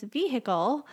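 "vehicle" imitated with a sounded H; H pronounced. Quoting a coworker on the wife's word, "vehicle" with the H sounded. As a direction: quote "vehicle" as vee-HICK-ul. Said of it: "I pronounce the H in it".

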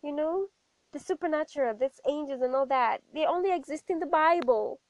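a hint of patronising church elder; dismissive elders. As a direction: brush the child off sweetly but firmly. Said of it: "And they were like".

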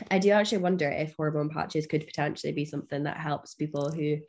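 tired, husky voice; losing voice. Real, not acted. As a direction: voice wearing thin. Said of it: "sorry, I'm losing my voice".

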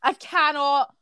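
mock farewell. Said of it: "a wee note to my mum".

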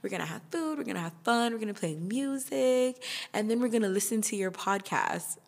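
a hint of the eager friend planning a party. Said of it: "She's like".

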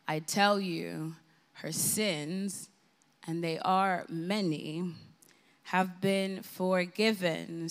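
measured, unhurried Bible reading; scripture reading. Acted. Preacher reading Luke's Gospel to the congregation, slow and reverent. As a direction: read the passage slowly and reverently. Reads Gospel passage aloud.

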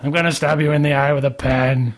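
lightly attempted tough-guy impression; mock threat with only a hint of accent; Joe Pesci. Host defending his Pesci impression, half-hearted mock threat. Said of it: "that's my Pesci im".

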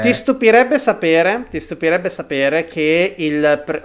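muffled behind a face mask; through a face mask. Real, not acted. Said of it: "con la mascherina fa davvero troppo caldo".

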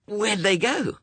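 high-pitched, questioning character voice; lightly acted young character. A narrator's reading. Wensley asks Death where they went, high young character voice.

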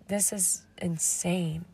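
slow hushed whisper to herself; whispered inner thought. Retold or imitated. Host recalling her reaction to her old episode, in a slow whisper. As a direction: breathe it out as a private realization, slowly.

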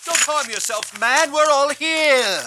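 urgent high-pitched call, as if from a distance; Paul shouting. Acted. Prisoner stopping the guard harming himself, urgent shout. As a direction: cry out to stop him. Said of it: "Paul saw him and shouted".

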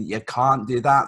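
"can't" slow and proper, with long ah; standard English "can't". Acted. Showing what no Glaswegian would say, "can't" slow and standard. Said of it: "no guy from Glasgow is gonna say".

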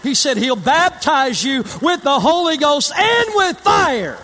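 rising preacher's call; preaching climax. Acted. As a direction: ring it out to the back pews.

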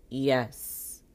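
one loud, curt "yes"; blank reply. Retold or imitated. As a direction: imitate an unimpressed clerk. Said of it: "she looks at me blank".

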